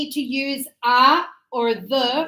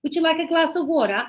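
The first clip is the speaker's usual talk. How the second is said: super formal; 3 semitones higher, faster than usual. Shown as a demonstration. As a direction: offer it politely to a guest. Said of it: "Now I'm being super formal".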